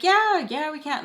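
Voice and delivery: high, breezy yeses imitating her; happy mom. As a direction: voice a mother in a great mood agreeing. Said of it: "she sounded so good".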